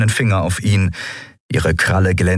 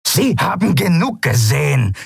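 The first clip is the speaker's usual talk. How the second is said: higher, scornful captain snort; 10 semitones higher than usual. Acted. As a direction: snort it dismissively. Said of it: "schnaubte Zaylar". (schnaubend, verächtlich)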